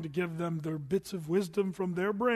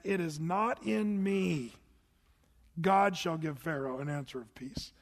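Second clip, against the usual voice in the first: humble reading. Shown as a demonstration. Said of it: "Don't you love it?".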